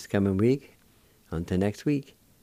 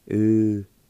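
syllable by syllable; 3 semitones higher, 7 dB louder, much faster than usual. Shown as a demonstration. Teacher sounding out a word.

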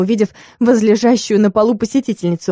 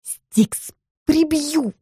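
hissed threat, softer; indignant hiss; 7 semitones higher, 4 dB quieter, much slower than usual. A narrator's reading. Witch hisses at her sleeping cat, indignant. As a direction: threaten the cat through the teeth. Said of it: "прошипела возмущённая я".

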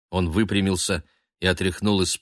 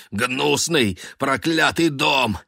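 building from raised to high loud rage; raving; 8 semitones higher, 4 dB louder than usual. A narrator's reading. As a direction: rant at the house, louder each line. Raving at the house.

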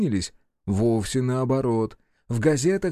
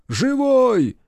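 joyful shout; 11 semitones higher, 6 dB louder than usual. Acted. Soldiers cheer comrade alive.

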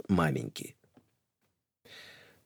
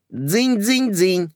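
high slow imitated ring; doorbell ring; 10 semitones higher, much slower than usual. Narrator imitates the intercom, high ringing.

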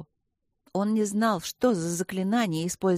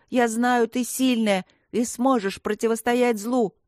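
громкий призыв; 4 semitones higher, 3 dB louder than usual. Acted. Мальчик взывает к подруге.

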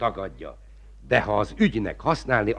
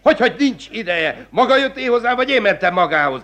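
high, fast, rising outrage; indignant tirade; 9 semitones higher, faster than usual. Acted. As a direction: pelt him with angry questions. Magistrate flares at defiance.

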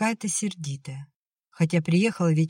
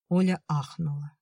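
ordinary delivery

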